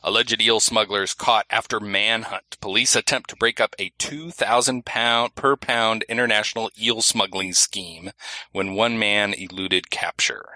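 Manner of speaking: slow, measured news read; newscaster voice. Acted. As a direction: read it like an anchor. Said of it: "I'll do it in my newscaster voice".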